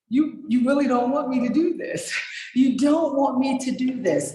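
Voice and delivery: high, amused warning through a laugh. Retold or imitated. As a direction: warn her while chuckling. Warning the woman, half laughing.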